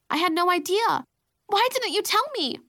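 high, exclaimed disbelief; high-pitched, amazed protest; astonished. A narrator's reading. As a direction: exclaim as if it's news to you. Sister reacts to the tearful confession.

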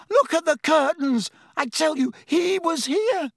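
high, frantic exclamation; panicked insistence. A narrator's reading. Ron convincing doubting roommates of an intruder, panicked. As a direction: insist in alarm, pitched right up.

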